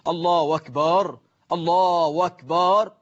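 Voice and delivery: أكبر said "wakbaar", run on from الله; hamza turned to waw. Shown as a demonstration. Teacher shows a worshipper's mistake, أكبر turned into "wakbaar". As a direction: glide from الله into "wakbaar", slowly. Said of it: "إبدال همزة، آه، لفظ الجلالة بواو".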